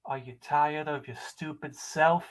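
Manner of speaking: emphatic lines broken by long pauses; dramatic monologue. Acted. Caller auditioning with a monologue, dramatic and emphatic.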